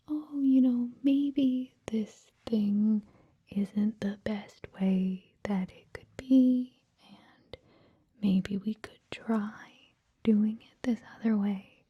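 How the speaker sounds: slow, tentative imitation of polite hedging; indirect, hedging. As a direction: draw it out as a careful, roundabout suggestion. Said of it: "we would use more indirect language".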